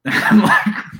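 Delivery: laughing. Real, not acted. Laughing mid story.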